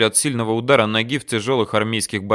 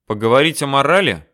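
snapping; 3 semitones higher, 5 dB louder than usual. Acted. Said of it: "окрысился капрал".

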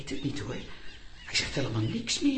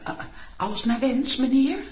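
roepen door de deur; 4 semitones higher, 4 dB louder than usual. Acted. Roept bezorgd naar wc-deur.

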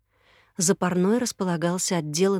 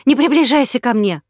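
high, loud shriek; woman keeping him back, shrieking; 5 semitones higher, 8 dB louder than usual. Acted. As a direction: squeal it in terror. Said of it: "взвизгнула Марта".

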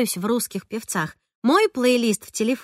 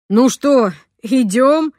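impatient; 3 semitones higher, 7 dB louder, much slower than usual. A narrator's reading. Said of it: "нетерпеливо сказал папа".

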